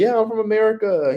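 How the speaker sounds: cheerful self. Retold or imitated.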